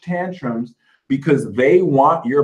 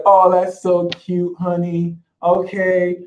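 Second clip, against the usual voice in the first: patronizing; 2 semitones higher, slower than usual. Pretend. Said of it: "patronize them".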